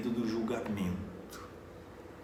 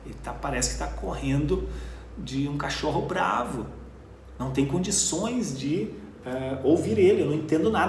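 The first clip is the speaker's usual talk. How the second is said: exasperated complaint; 4 semitones higher than usual. Retold or imitated.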